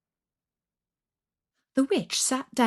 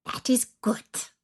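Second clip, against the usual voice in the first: menacing witch; 4 semitones higher than usual. Acted. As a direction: hiss the terms like a wicked hag. Witch voice held.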